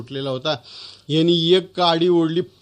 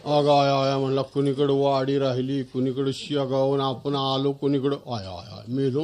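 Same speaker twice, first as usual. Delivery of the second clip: put-on lost boy lamenting; 4 semitones lower than usual. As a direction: groan out the lost way, fading low.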